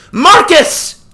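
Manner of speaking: high loud call. A narrator's reading. Sister calls her brother's name, loud call. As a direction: call him from across the field. Girl calls out across field.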